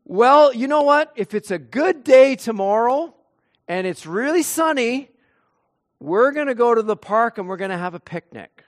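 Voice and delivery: mildly excited parents promising a picnic; cheerful parents. Retold or imitated. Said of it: "Parents would say".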